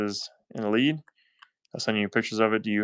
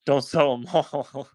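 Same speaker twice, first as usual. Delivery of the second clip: laughing; 4 semitones higher, 4 dB louder, slower than usual. Real, not acted. Joking with auction viewers.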